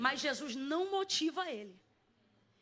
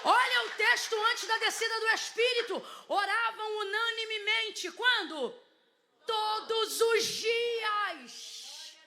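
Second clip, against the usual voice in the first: high, slow declaiming with stretched words; full-force preaching; 5 semitones higher, 4 dB louder, slower than usual. Real, not acted. Preacher recounting Pentecost to the congregation, impassioned slow proclamation. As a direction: proclaim each phrase high, drawing out key words.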